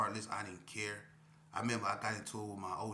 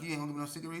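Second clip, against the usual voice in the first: mock indignant ask; 7 semitones higher, much faster than usual. Retold cigarette quarrel with K P.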